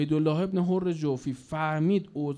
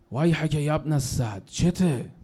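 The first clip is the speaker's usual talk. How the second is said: mock shout; 5 dB louder than usual. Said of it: "سرش داد زد".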